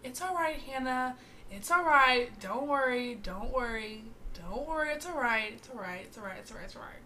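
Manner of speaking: soothing, fading reassurance; calm a crying friend gently; reassuring. Retold or imitated. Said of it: "and I'm like".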